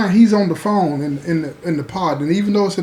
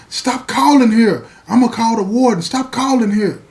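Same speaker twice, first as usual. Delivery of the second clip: mock yelling; 5 semitones higher than usual. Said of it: "She picks up the phone yelling".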